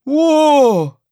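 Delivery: high, loud, drawn-out gasp of wonder; amazed gasp. A narrator's reading. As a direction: gasp it out, astonished. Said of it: "he gasps".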